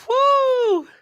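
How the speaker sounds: a high, loud whoop of joy; mock draft cheer. Drafted player celebrating her pick, high excited whoop. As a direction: cheer like your name was just called. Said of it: "And you're like".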